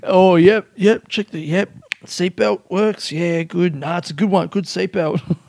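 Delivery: high, laughing show-off check. Pretend. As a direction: fuss over the seatbelt, laughing. Hamming up mirror check.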